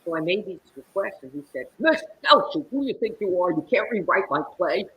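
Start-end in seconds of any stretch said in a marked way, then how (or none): 1.8-4.9 high, loud imitated outburst; indignant playwright. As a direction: scold like an affronted author. Playwright angrily refuses her requests.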